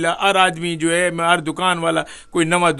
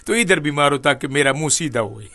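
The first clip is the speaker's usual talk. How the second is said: laughing; 3 semitones lower than usual. Retold or imitated. Offering the other cheek jokingly.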